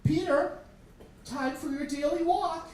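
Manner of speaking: put-on high singsong little-girl voice; little sister calling. Little sister calling her periwinkle for a walk, high. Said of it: "she got her bucket and she said".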